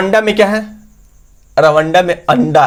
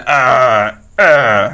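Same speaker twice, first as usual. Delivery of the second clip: mock burp sound, aa aa; 4 semitones lower than usual. Shown as a demonstration. Teacher to students explaining डकार, with a playful mock burp. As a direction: imitate a belch for the class. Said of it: "तब ना ढेकार आता है".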